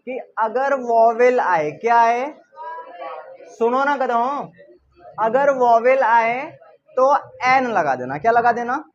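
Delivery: slow, loud mock classroom drill; hammed-up strict teacher scolding the class; imitating old school teacher. Teacher mocks how his school taught rules, loud slow drill. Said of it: "तो हम लोगों को क्या पढ़ाया गया था".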